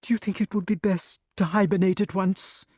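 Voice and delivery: high, fast, breathless chatter; excited snake. A narrator's reading. Snake gushes to Wart about its scare, high and excited. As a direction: babble on, still in a flutter. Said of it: "went on excitedly".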